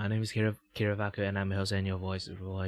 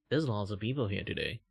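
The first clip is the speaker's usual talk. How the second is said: out of breath; 4 dB quieter than usual. Real, not acted. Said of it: "Running out of breath".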